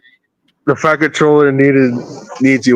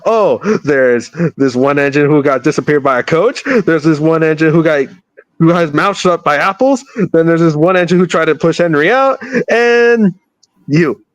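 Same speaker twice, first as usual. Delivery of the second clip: James voice; 4 semitones higher than usual. Acted. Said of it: "James like".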